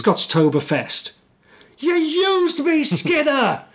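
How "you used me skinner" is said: high, slow, outraged Scottish shout; Scottish janitor voice. Retold or imitated. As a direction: howl it like a betrayed Scottish janitor. Willie's angry outburst quoted.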